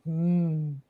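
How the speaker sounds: slow, lightly voiced content cat; a hint of a contented cat. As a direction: savour it like a cat eating. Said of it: "That's my Mo".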